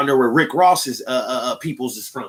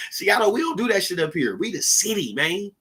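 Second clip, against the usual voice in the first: usual speaking voice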